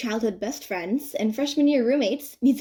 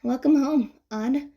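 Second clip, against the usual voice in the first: smiling; 3 semitones higher, slower than usual. Acted. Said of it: "she smiles and says".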